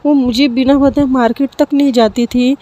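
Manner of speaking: pleading with the aunt, stunned and hurt; upset, close to tears. Acted. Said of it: "थोड़ी सी emotional हो जाती है और थोड़ी सी रोने".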